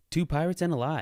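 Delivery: high, loud announcer voice; game show announcer. Pretend. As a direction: boom out the title like a host.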